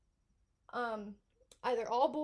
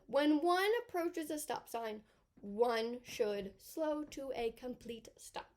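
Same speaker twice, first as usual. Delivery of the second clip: formal; slower than usual. Shown as a demonstration. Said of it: "We should technically be saying one".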